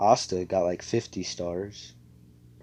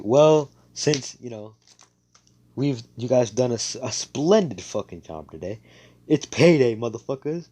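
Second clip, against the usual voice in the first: louder, higher rough bellow; boisterous announcement; 3 semitones higher, 6 dB louder than usual. Retold or imitated. Yami telling the squad it's payday, loud rowdy announcement.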